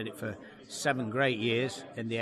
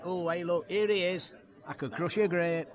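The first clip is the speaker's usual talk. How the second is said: higher-pitched retold greeting; lightly voiced punter spotting a comic; imitated fan; 5 semitones higher than usual. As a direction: call out a catchphrase in mock recognition.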